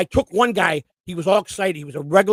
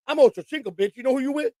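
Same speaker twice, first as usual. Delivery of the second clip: Ocho Cinco; 5 semitones higher than usual. Retold or imitated. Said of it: "That sounds like him".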